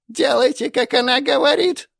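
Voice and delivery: very high, loud quavering crone; trembling old voice. Acted. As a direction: plead in a shaking old voice. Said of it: "трясущимся голосом продолжила".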